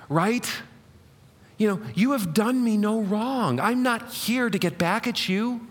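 lightly voiced pleading mother; a hint of a hurt mom; guilt-tripping mom. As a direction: coax and guilt the kids gently. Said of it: "I think Paul was a woman".

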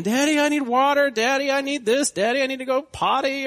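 high-pitched, loud kid imitation; pestering child. Kids bounding in on sleeping dad, pestering child voice. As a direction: badger Daddy in a piping child voice.

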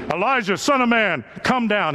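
lightly acted military order; a hint of a commander's summons, firm and measured; militaristic commander. Next commander summons Elijah, mildly militaristic. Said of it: "said in a militaristic voice".

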